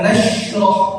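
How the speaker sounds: "nashrah" said through pushed-out lips; "nashrah" with rounded, protruding lips; pouted lips. Shown as a demonstration. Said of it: "jangan mulut kita di monyong".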